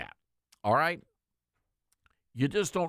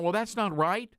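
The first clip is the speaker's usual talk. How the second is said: mock objector; 3 semitones higher than usual. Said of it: "many of you would be saying".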